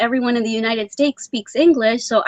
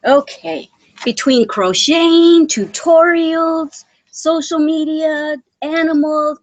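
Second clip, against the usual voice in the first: slow, higher, emphatic listing; drawn-out list; 6 semitones higher, 4 dB louder, slower than usual. Real, not acted. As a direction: stretch each item out, weary and amused. Listing how busy her life is.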